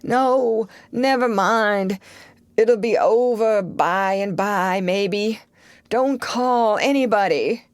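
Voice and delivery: put-on high, worried boy's voice; anxious. Sid alarmed at his groaning brother, worried pleading.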